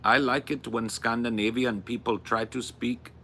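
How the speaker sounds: put-on second stab at a Scandinavian accent; imitated Scandinavian accent. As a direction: try English with a Scandinavian lilt. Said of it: "I'll have it in my head".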